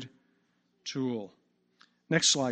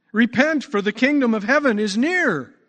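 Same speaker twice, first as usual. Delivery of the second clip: raised, ringing call to repent; preaching proclamation; 7 semitones higher, 6 dB louder than usual. Acted. Jesus begins to preach John's same message, proclaiming loudly. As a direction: proclaim it high and loud to the crowd. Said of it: "Jesus too began to preach".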